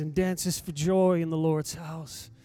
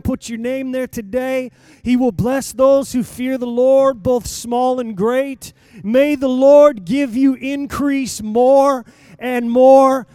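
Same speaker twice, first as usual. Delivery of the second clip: louder, higher preaching that builds to a cry; full-force preaching; 5 semitones higher, 8 dB louder than usual. Acted. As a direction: proclaim each blessing over the crowd, loud and slow.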